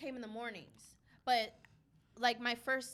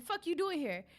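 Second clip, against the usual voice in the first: higher-pitched mock challenge; lightly retold trash talk; talking shit; 6 semitones higher than usual. Store clerk ribbing a regular customer, talking shit. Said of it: "I talk shit".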